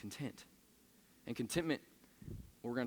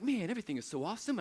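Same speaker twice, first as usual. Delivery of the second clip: mock gushing; 7 semitones higher, faster than usual. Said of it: "you're like".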